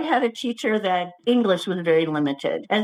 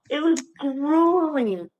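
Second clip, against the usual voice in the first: dramatic drawl; 3 semitones higher, much slower than usual. Real, not acted. Dramatizing the hard class.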